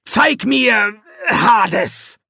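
slow, high, loud royal command; shouted command. Acted. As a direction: bellow it slowly. Demon king commands mirror.

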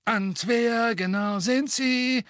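slow, lofty, disinterested question; bored, haughty. A narrator's reading. Fudge questioning the witness, bored and haughty. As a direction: look down on her. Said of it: "gelangweilt hochmütigem Ton".

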